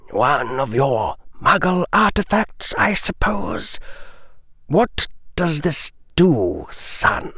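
a smooth, menacing lord toying with a trinket; Lucius's voice. Acted. Lucius speaks to Draco.

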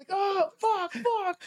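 high, laughing mock panic. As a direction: squeak it out like you're being shot at. Ducking as if being shot at.

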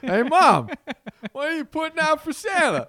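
put-on high, loud whiny child; whiny kid voice. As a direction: whine it like a kid on the holidays. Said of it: "every kid has my voice".

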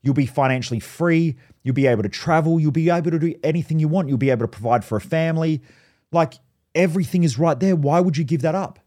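imitating an upset, pleading mum; mildly acted parental upset, listing what's lost. Mum begs her son to stay in his job, mildly upset imitation. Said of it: "she started getting upset".

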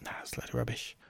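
breathy whispered brush-off, almost no voice; dismissive whisper. Retold or imitated. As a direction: mutter it under your breath like a scoff. Inner dismissive thought, quoted.

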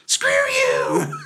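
whispered insult, loud and breathy; mock whispered curse; loud whispered screw you. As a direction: hiss it out. Retold rant ends.

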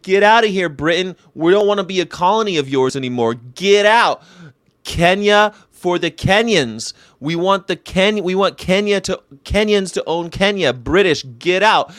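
hammed-up defiant shout; mock shout. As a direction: shout it like a freedom fighter ordering the British out. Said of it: "he said".

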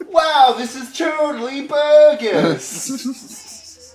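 slow, laughing surfer-dude complaint. Acted. Fired surfer griping to his boss, slow laughing whine. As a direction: drag out the surfer gripe. Gary whining surfer slang.

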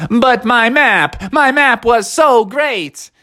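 slow, high wail of protest; high-pitched disappointed robot; Techno Bear. Acted. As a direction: whine it, hurt and drawn out. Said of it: "And Techno was like".

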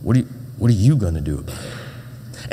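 a hint of a menacing big kid; big kid sneering. Bully looming over a small boy, lightly mock menacing. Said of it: "He's like".

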